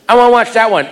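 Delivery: put-on high child voice; high kid pleading; daughter's voice. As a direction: ask like an eager little kid.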